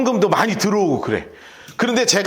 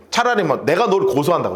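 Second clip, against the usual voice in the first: usual speaking voice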